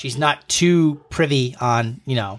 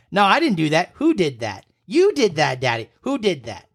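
playful back-and-forth; 4 semitones higher than usual. Retold or imitated. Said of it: "we're just doing".

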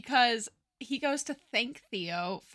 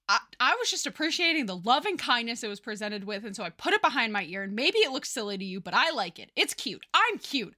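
flustered Sheldon rant; faster than usual. Acted. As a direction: rattle it off fast, getting flustered and campy. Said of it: "he's like".

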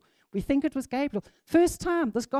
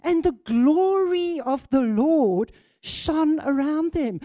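excited; 3 semitones higher, 4 dB louder than usual. Real, not acted. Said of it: "Man, I'm getting excited".

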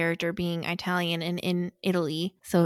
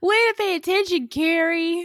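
high, loud, quick mock scolding; laughing, raised-pitch playful dig; teasing jab; 10 semitones higher, 6 dB louder than usual. Real, not acted. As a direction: rib your co-host through amusement. Laughing tease at co-host's lapse.

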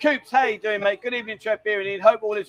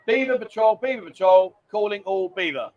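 calling out a patrol; mock radio call. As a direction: hail the team as if over a radio. Hailing someone like radio call.

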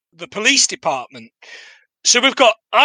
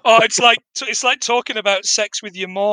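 laughing. Real, not acted.

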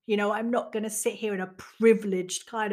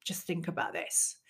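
calm, measured and slightly low; retold calm leave-taking; 4 semitones lower, 4 dB quieter than usual. Leaving her family after the row, calmly composed. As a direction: announce your exit with composure, voice lowered. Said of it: "I left very calmly".

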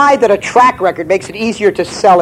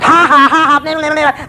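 mocking laugh; 9 semitones higher than usual. Leprechaun mocks laughing.

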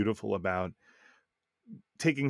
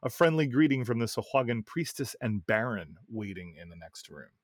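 reading aloud. Acted. Reads a listener's game story.

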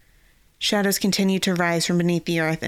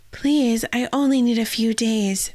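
pleading; 5 semitones higher than usual. Retold or imitated. Fiona pleads with Yvain.

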